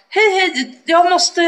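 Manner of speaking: high-pitched, laughing awkward hello; flustered brush-off; nervous high greeting. Retold or imitated. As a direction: squeak it out trying to escape.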